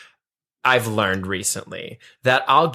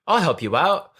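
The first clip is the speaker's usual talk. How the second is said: put-on amateurish British accent, pitched up; bad British accent; 4 semitones higher than usual. Imitating helpful pottery contestants, in a bad British accent. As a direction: try a British accent and don't quite land it. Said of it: "that's my bad British accent".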